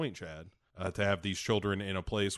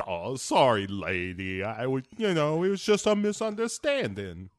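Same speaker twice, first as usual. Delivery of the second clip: sheepish Phil; 2 semitones higher, 3 dB louder than usual. Retold or imitated. Phil apologizing, voiced.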